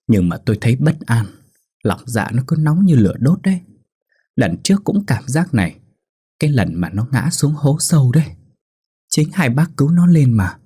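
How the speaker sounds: put-on high, teary old woman; tearful pleading. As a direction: plead on the edge of tears. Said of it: "hai mắt nhòa lệ".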